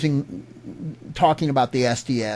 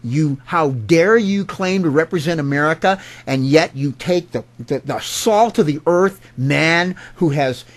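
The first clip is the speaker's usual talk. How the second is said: indignant confrontation; 2 semitones higher than usual. Acted. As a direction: tell him off, leaning hard on the insults. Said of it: "get in his face and say".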